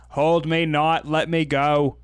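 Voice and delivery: lightly voiced presidential impression of a Shakespeare line; John F. Kennedy. Romeo's dad yelling at his wife, light Kennedy impression. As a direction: play the husband's line as a hint of a famous president. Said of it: "in a John F. Kennedy impression".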